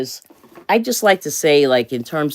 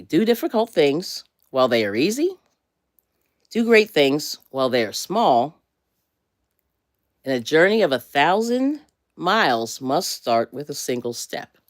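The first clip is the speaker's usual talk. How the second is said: careful quote reading. Shown as a demonstration. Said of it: "I'm gonna do that one more time".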